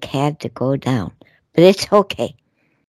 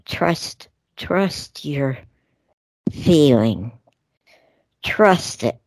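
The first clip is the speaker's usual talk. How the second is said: whisper; slower than usual. Real, not acted. Reassuring listeners about fear in a whisper. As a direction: breathe it like a secret. Gentle spirit message of reassurance.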